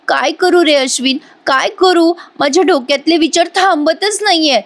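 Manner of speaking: high, overplayed mock sob to a friend; fake crying. Scheming girl fakes tears on the phone to Ashwin, mock weepy. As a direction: put on a tearful act to hook him. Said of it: "मोठ्याने रडायला लागते".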